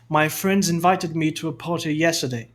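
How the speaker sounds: British sentence, no R in "party" and "yesterday"; British accent. Shown as a demonstration. Teacher repeating the example for contrast, British accent. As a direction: say it British, long vowel and clear T in "party". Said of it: "Sotaque britânico".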